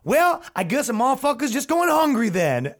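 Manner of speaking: high, laughing give-up line; a delivery guy resigned, laughing; laughing resignation. Retold or imitated. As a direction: shrug it off through laughter. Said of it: "And he goes".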